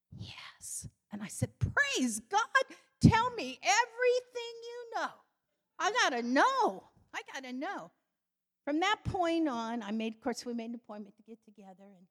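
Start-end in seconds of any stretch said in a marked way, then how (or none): 0.1-0.9 whispered, confidential reply; secretive whisper. Retold or imitated. Wife looks round, then answers secretively. 1.6-7.9 high, loud, desperate eagerness; excited outburst. Retold or imitated. Eager outburst at the whispered yes.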